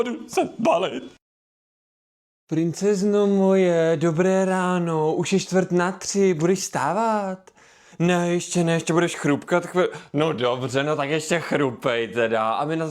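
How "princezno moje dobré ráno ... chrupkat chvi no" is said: slow, sweet and gentle, drawn out; doting. Acted. Dad gently waking his beloved daughter, doting.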